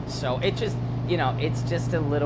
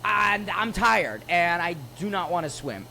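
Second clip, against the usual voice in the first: high, slow, whining complaint; mock-tired whine from a fed-up Adrienne; whiny exhausted refusal; 8 semitones higher, slower than usual. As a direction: play the worn-out partner who won't swim.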